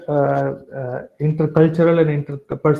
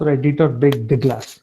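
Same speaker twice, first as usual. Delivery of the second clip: "not" stressed with a falling tune. Shown as a demonstration. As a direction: come down firmly on "not". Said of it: "the emphasis given on the word".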